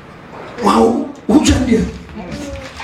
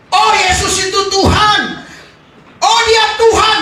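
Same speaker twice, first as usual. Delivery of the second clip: shallow confession; 10 semitones higher than usual. Pretend. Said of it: "Bukan itu maksud saya".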